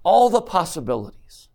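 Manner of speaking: put-on a loving father lifting his child up; gentle Heavenly Father. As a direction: coax them to see all they can do. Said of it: "I think Heavenly Father is saying".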